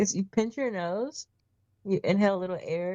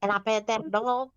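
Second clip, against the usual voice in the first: pinched-nose voice; 3 semitones higher than usual. Pretend. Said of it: "I pushed my nose".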